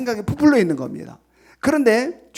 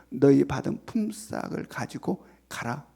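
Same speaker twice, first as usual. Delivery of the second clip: slow, measured master's dismissal, slightly lowered; formal scriptural dismissal; 4 semitones lower, 3 dB quieter than usual. Acted. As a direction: send them away in stately, unhurried words. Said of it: "성경이어서 이렇게 표현하고 있지". (성경 말투로 천천히)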